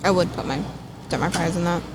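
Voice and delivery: chewing while talking; mouth full. Real, not acted. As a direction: talk through a bite of food. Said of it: "As I'm talking with my mouth full".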